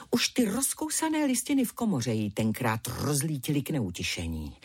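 ordinary delivery, nothing marked

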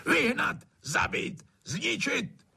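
high, clipped commands, one after another; furious orders. Acted. Trautenberg hollering to drown out the frogs, furious. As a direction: spit out each order.

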